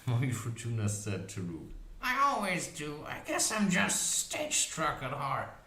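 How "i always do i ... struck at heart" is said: high cackling crone voice; witch voice. A narrator's reading. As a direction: play the old witch, gleeful. Witch voice continues.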